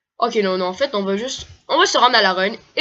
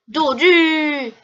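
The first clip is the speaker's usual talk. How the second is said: higher, punchier doll call; squeaky doll cry; 6 semitones higher, 3 dB louder than usual. Acted. Gamer voices a Pokémon doll, higher squeaky cry. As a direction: squeak the doll's name brightly.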